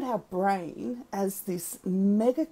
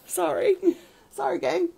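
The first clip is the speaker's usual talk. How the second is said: laughing apology; 11 semitones higher, 3 dB louder than usual. Real, not acted. Laughing apology right after sneezing.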